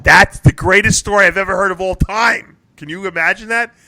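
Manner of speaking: high-pitched, astonished disbelief; incredulous amazement. Real, not acted. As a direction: react in disbelief at an outrageous story. Reacting to absurd news story.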